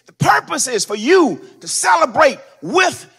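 loud, sung whooping sermon cadence; black church whoop, building and loud; preaching at full force. Acted. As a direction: ride the organ with a chanting preacher's cry. Preacher whooping, organ behind.

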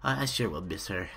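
mock sentimental; mock grief. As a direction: pretend to miss the mother. Mock mourning mom.

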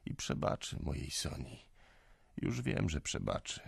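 soft, near-whispered forgiveness; tender hush. Acted. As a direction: forgive her gently, barely above a breath. (cicho, czule)

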